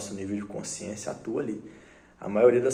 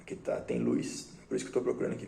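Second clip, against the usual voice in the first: put-on drunk mumbling; 3 dB quieter, faster than usual. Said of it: "porque o Zé tá bêbado".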